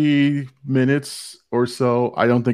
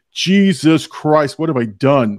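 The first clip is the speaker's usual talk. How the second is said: mock dismay; 2 semitones higher than usual. Host retelling his reaction to a friend's bad review, dismayed. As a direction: draw out the oath in playful dismay.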